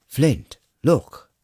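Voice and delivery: sudden alarmed cry to the dwarf; calling out. A narrator's reading. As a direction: call his friend over the fire. Sturm spots movement, calls out.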